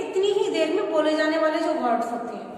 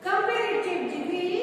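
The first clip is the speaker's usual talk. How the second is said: slow dictation; 4 dB quieter, much slower than usual. Shown as a demonstration. Teacher dictating rule to class.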